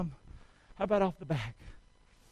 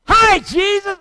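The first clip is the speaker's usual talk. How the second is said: high, loud put-on greeting to Jesus; mock greeting; 11 semitones higher, 12 dB louder, slower than usual. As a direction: play a sinner meeting Jesus.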